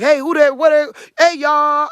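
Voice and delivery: loud, high, bouncy hollering hello; hollering hey y'all; country greeting. Shown as a demonstration. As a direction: call out like a cheerful country girl. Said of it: "I was the weirdo for being like that".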